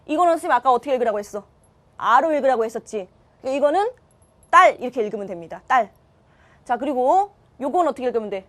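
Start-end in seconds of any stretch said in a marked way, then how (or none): 4.5-4.8 딸 with a tense, unaspirated tt at the start; tense-consonant reading. Shown as a demonstration. Teacher showing students how to read an old cluster, 딸 with tense tt. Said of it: "맨 끝에 거를 된 소리를 읽으면 돼". 5.7-5.9 딸 with a tense, unaspirated tt at the start; tense-consonant reading. Shown as a demonstration. Teacher showing students how to read an old cluster, 딸 with tense tt. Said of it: "맨 끝에 거를 된 소리를 읽으면 돼".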